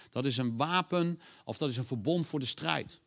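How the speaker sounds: ordinary talk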